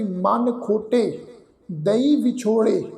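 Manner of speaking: very slow, word by word Gurbani recitation, ਦਈ said clearly; slow scripture recitation. Shown as a demonstration. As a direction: stretch each word out as a model reading. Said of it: "ਫਿਰ ਅਸੀਂ ਪਾਠ ਉਚਾਰਨ ਕਰਦੇ ਹਾਂ ਜੀ". (ਬਹੁਤ ਹੌਲੀ, ਸ਼ਬਦ-ਸ਼ਬਦ ਪਾਠ)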